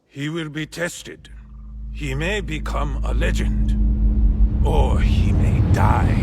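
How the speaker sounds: loud, ringing declaration of fate; loud proclamation. Acted. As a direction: proclaim it loud to the whole court. Lord declares warrior's fate.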